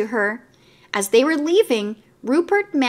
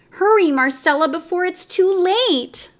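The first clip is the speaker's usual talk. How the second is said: anxious thought; 8 semitones higher than usual. A narrator's reading. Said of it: "thought Raggedy Ann".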